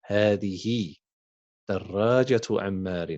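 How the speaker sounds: هذه and دراجة عمار read as separate chunks with a pause between; slow dictation. Shown as a demonstration. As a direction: read it back slowly in two parts for the class. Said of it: "teacher repeats it slowly".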